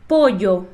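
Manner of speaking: Pollo with a Y sound; Spanish LL. Shown as a demonstration. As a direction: say Pollo clearly for repetition. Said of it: "Então, repete lá".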